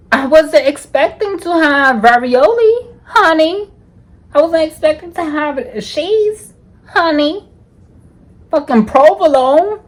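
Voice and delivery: high, loud, outraged disbelief; ranting about her date, loud and outraged; indignant rant. Real, not acted.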